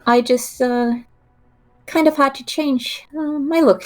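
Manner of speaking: gentle coaxing. Acted. Player tells the familiar who she is, gentle and hesitant. Player speaks in character to owl.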